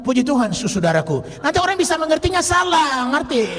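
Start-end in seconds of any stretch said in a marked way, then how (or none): none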